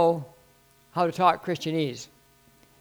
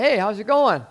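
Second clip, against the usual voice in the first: mild mock call-out, raised pitch; retold shout; 5 semitones higher, 4 dB louder than usual. Pastor hailing a young guy, mildly shouted. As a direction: call out a greeting, only half shouted. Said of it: "I shouted out".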